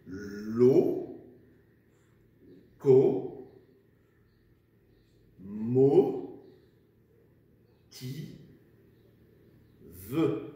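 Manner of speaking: "lo, co, mo, ti, ve" one at a time with long pauses; syllable-by-syllable dictation. Shown as a demonstration. Teacher dictating to the class, "lo, co, mo, ti, ve" syllable by syllable. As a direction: hold each syllable of "lo, co, mo, ti, ve" separately, sounding the final "ve". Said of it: "nous commençons la dictée".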